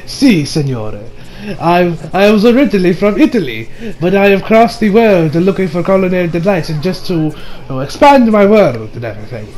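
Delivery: put-on Italian chef accent, pitched a little down. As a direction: introduce yourself with an imitated Italian accent. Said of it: "I'm going to talk with an Italian accent".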